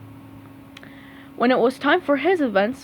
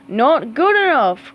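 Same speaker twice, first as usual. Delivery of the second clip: cried out; 2 semitones higher, 6 dB louder than usual. Acted. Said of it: "cried Squidward".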